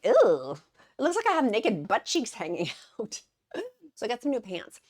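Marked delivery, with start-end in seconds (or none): 0.0-3.2 loud, grossed-out exclamation; disgusted reaction. Retold or imitated. Woman reacting to her riding-camp pictures, loud disgust. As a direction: recoil loudly at an embarrassing sight.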